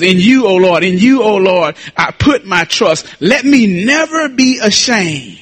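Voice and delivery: slow, stretched preacher's declamation; declaimed scripture. Real, not acted. Preacher reciting Psalm twenty-four to church, declaimed scripture. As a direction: proclaim the psalm with weight, drawing out key words.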